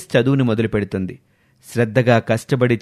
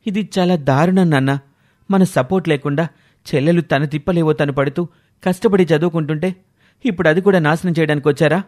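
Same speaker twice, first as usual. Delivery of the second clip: higher, faster indignant reproach; rising indignation at the father; upset protest; 3 semitones higher than usual. Acted. Son confronting father over sister's forced marriage, indignant.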